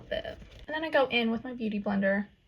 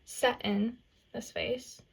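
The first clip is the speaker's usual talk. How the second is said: slow, light Southern drawl on Set in this face; a playful hint of a Southern accent; slower than usual. Shown as a demonstration. Vlogger teasing her viewers in a slow mock Southern accent. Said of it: "My southern accent there".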